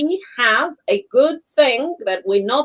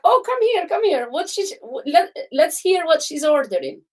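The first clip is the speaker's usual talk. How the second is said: amused bartender; 5 semitones higher than usual. Retold or imitated. Bartender calling others over.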